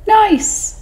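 a tiny sly squeak; 'stute fish voice. Acted. Small fish tempting the whale, high and sly. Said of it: "said the small 'stute fish".

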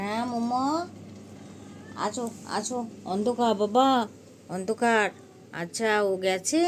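loud sweet call to a cat. Real, not acted. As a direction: call Momo in from the dark. Calling cats in the dark.

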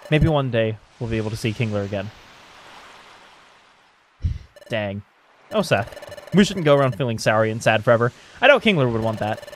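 low, soft, wistful voice; downcast game character. Acted. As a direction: play it subdued, missing a friend. Voices sad characters missing Kingler.

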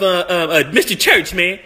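normal talking voice

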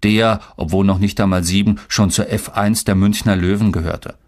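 plain reading voice

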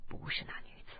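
put-on soft, breathless whisper of a wounded old man; old man whispering from his sickbed; low-voiced. A narrator's reading. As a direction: barely voice it, hurt and weak. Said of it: "柯镇恶低声道".

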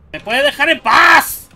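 loud exasperated shout. Real, not acted. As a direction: yell at the chasing monster. Chased by monster.

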